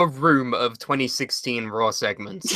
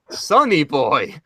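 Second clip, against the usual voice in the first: slow, dull deadpan name; slow deadpan mock of the wrestler; deadpan Sonny Boy; much slower than usual. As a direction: drag out the name flatly. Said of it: "then he goes".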